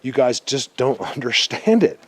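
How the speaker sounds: real frustrated yelling. Real, not acted. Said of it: "I'm kinda yelling right now".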